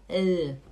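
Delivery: L with tongue tip behind top teeth; demonstrated L sound. Shown as a demonstration. Teacher showing tongue position, sounding L. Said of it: "A ponta da língua fica aqui".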